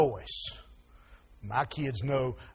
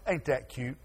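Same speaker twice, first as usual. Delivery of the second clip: mock doting parent; 4 semitones lower, 7 dB quieter than usual. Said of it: "Mom and Daddy sitting there going".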